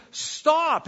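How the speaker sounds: one high, loud, falling word; commanding shout. Acted. God calling the world to halt, a loud command. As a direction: make it land like a command from above. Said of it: "God is calling on us saying".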